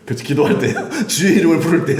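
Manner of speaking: chuckling as you say it; laughing. Real, not acted. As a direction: answer through a laugh. Laughs while answering.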